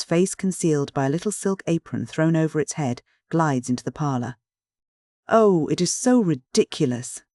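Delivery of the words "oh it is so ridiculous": put-on shy girl voice. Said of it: "says the apparition, stopping and shrinking".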